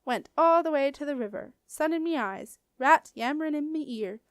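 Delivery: loud, grumbling creature voice; a Bogart moaning about lost sleep; complaining Bogart. A narrator's reading. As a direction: grumble like a sleepy mud beast.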